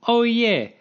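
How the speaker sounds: high, loud burst of remembering; a sudden "oh right!" moment; sudden recall. Real, not acted. Suddenly remembers a skipped topic.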